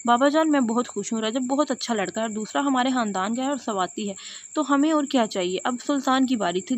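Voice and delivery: plain reading voice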